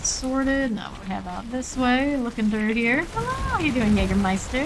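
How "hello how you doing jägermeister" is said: mock cheery greeting. Greeting a monster in-game.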